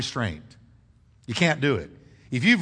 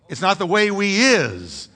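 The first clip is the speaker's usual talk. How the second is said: deliberate bad grammar; 4 semitones higher, 4 dB louder than usual. Shown as a demonstration. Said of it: "That's bad English".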